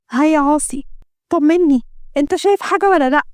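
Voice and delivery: a mild touch of fearful urgency; anxious Layla. Acted. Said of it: "حاطة إيدها على قلبها من الخوف". (بقلق وترقب)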